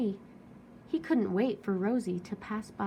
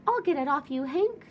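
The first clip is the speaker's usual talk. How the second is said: louder, higher eager call; helpful shout; 6 semitones higher, 4 dB louder than usual. Acted. Tumbleweed shouting as she rescues the cactus. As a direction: shout it out to help. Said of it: "she shouted".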